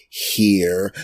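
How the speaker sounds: heavy stress hitting the word "here". Retelling what the owner said on seeing the speaker, hitting the word 'here' hard. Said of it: "he hit the word here really hard".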